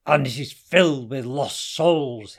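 loud, menacing hissed accusation; dangerous hiss. A narrator's reading. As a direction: threaten him under your breath. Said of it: "hissed Hassan dangerously".

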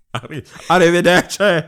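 high, laughing Italian farewell; laughing goodbye. Pretend.

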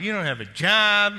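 high, loud alarmed blurt; mock alarm at a jobless man leaving; panicked inner voice. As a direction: let the panic jump out of you. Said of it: "in my head, I'm going".

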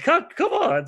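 sudden high, loud protest; hammed-up whine under a noogie; mock yelp. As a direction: squeal it like a bullied kid. Mimicking him being noogied.

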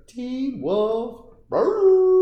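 host teasing next movie with a loud mock growl; mock werewolf hype. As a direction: ham it up like a werewolf. Hyping next movie Teen Wolf.

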